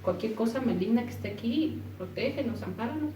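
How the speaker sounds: soft, quiet plea to God; retelling a frightened whispered prayer; hushed prayer. Retold or imitated. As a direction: pray it under your breath. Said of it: "me puse en oración y dije".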